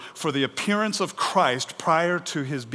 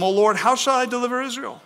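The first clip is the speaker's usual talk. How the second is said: woe is me; 9 semitones higher, 4 dB louder, faster than usual. Acted. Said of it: "this is kind of the woe is me moment".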